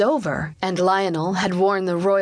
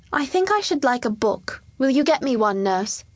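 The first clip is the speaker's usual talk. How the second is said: lightly voiced child, higher pitch; child asking; 5 semitones higher than usual. Boy king asking his nurse for a book, lightly childlike. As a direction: ask as a little boy would, pitched up.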